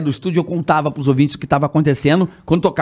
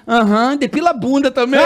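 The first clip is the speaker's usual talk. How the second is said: high-pitched gossipy confirmation; imitated waxer; 6 semitones higher than usual. Waxer reveals client details to caller, imitated high voice. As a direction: spill the detail in a higher put-on voice.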